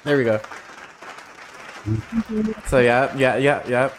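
mock-modest hushing of the crowd; milking the applause. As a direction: wave off applause you secretly love. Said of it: "Hold your applause".

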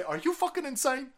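high, heated scolding of the party; mock-furious donor demanding money back; angry rant. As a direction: tear into them like a cheated donor. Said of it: "You need to say".

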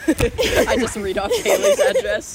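laughing through the words; giggling while talking. Real, not acted. Laughing at reading address.

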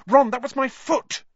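high, loud pained protest; pained gasp. A narrator's reading. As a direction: cry out indignantly at being stepped on. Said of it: "gasped Hermione".

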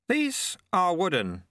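high, slow and unbothered; calmly. A narrator's reading. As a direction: Lutse releases the deadly wooden balls, high and calm. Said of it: "said Lutse calmly".

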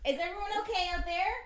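calling out. Real, not acted. Calling out to the neighbours.

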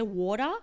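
"water" as borrowed from an American-accented friend; American-influenced pronunciation. Shown as a demonstration. Showing a friend the borrowed sound, "water" lightly Americanised. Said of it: "the way you pronounce your R's".

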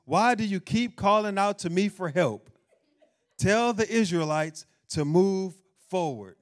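loud, firm rebuke from God; forceful scripture proclamation. Acted. Pastor booming God's rebuke at the congregation, loud. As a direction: preach it out loud, almost shouting. Reading scripture aloud, repeated louder.

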